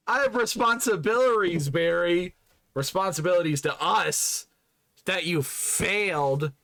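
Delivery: hammed-up indignant lecture, slowing at the end; mock scolding. Streamer scolding late Barry, mock indignation.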